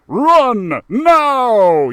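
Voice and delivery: loud urgent command; yelled. Acted. Max yelling at the mice to flee, loud. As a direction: yell at them to run. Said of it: "yelled Max Musclepaw".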